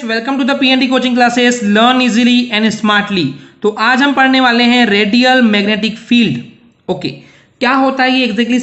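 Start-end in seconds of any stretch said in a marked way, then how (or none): 0.0-3.2 slow, drawn-out welcome line, announcer-like; slow channel intro. Acted. Teacher opening his coaching channel video, a slow intro. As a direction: spell out the channel welcome slowly.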